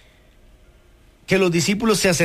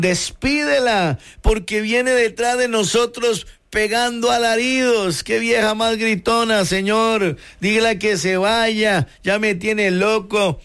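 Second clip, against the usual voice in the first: exasperated disciple; 4 semitones higher than usual. Retold or imitated. Disciples begging Jesus to send the shouting woman off, higher and fed up. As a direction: whine to the master to send her away. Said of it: "le dicen".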